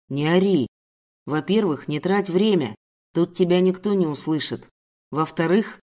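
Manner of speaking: a hint of a gruff man; lightly voiced stern male captor. Guard silencing his captive, mildly stern.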